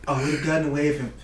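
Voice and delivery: Donald Trump voice, lightly done; a loose take on Trump's voice; Trump impression. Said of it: "this first one will be in a Trump accent".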